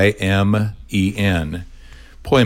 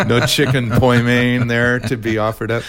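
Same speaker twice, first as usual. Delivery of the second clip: laughing; 3 semitones higher than usual. Real, not acted. Joking about a Chinese restaurant.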